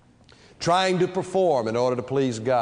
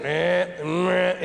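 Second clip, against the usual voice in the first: machine noise; 2 semitones higher than usual. Retold or imitated. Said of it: "then you hear it go".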